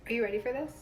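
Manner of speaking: usual speaking voice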